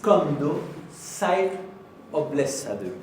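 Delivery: komdu sæll og blessaður said very slowly; slow Icelandic greeting for learners. Shown as a demonstration. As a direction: spell out komdu sæll syllable by syllable. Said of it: "Un poco rápido".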